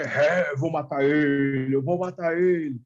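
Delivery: drawn-out threat, no real shouting; mock demon cry. Spirit threatening as the believers walk in, mildly hammed-up possessed cry. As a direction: lightly imitate a possessed man's cry. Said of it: "o bicho gritando".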